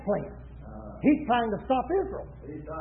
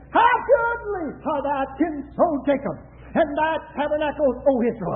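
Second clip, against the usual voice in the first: prophetic declaration. Retold or imitated. Preacher quotes Balaam looking over Israel's tents, prophetic declaration. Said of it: "and he said".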